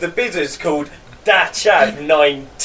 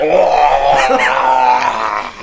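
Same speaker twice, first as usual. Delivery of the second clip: over-the-top moan; 5 semitones lower, 4 dB louder than usual. Pretend. Overdone attempt at the word Oh.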